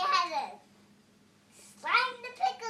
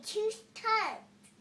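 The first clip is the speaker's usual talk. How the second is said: real shocked gasp; 3 semitones higher than usual. Real, not acted. Parent hearing the baby had two tongues, gasping in shock.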